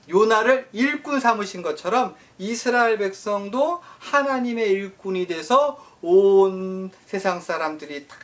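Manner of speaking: usual speaking voice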